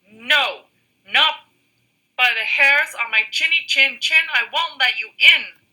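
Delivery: high, squeaky pig voice; squeaky little pig. Acted. First little pig refusing the wolf, high and squeaky. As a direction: squeak it out defiantly. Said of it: "squeaked the third little pig".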